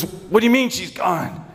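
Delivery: high-pitched incredulous question; shocked disbelief. Acted. Father to son who says mother left, shocked. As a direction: throw the news back in disbelief.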